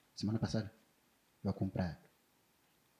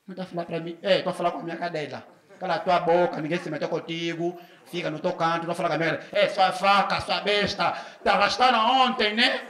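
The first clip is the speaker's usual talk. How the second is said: neighbour's retort. Retold or imitated. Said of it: "a vizinha começa a falar assim".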